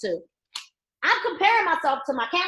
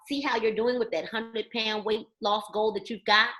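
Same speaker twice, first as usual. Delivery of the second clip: polite follow-up pitch; 2 semitones lower, 4 dB quieter than usual. Retold or imitated. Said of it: "okay, what I say is".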